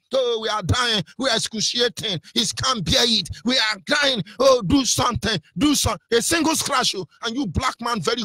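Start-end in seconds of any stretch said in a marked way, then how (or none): 0.1-6.2 high mock cries of pain; mock wailing victims. Preacher mocks the news as a false alarm, wailing high. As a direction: wail like you're dying from a scratch. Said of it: "This is false alarm".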